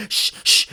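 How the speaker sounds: voiceless "shh, shh"; two retold shushes; imitated shushing. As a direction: mimic hushing someone who is panicking. Acted hushing of the panicking kid.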